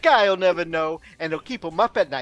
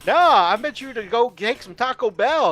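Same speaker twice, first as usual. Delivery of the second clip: put-on New York mobster accent; 4 semitones higher, 4 dB louder than usual. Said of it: "all of our New York audiences have unsubbed".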